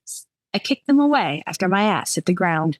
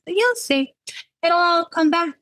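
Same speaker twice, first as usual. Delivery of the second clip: put-on drunk warning; 11 semitones higher than usual. A narrator's reading.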